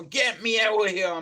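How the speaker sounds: frantic, loud shout to be let out; panicked shout. Retold or imitated. Man shut in a morgue fridge yells to be let out, panicked. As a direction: bang on the door and yell to be freed.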